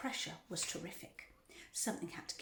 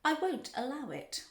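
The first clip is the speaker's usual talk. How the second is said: raised, emphatic cry; 6 semitones higher, 5 dB louder than usual. A narrator's reading. Factory owner forbidding fudge son, crying out. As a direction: declare it higher and louder. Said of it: "cried Mister Wonka".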